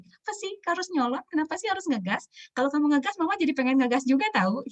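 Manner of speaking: high-pitched mock scolding of a child; playfully hammed-up exasperation; exasperated mum. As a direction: act out a parent getting irritated back. Parent voiced snapping at child.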